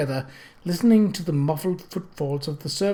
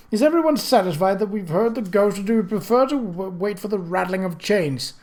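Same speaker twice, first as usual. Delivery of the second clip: jocular; 4 semitones higher than usual. Acted. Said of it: "in a jocular tone".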